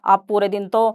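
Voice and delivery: daughter scolding her brother, rising at the end; retold scolding. Daughter scolds brother over mum's channel, mock scolding. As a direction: mildly scold a lazy brother. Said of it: "इसने अपने भाई को डांटा".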